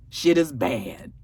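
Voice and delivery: slow, low near-whisper; hushed verdict. Real, not acted. Recapper sums up her losses, slow hushed dismay. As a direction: let it drop to a whispered aside.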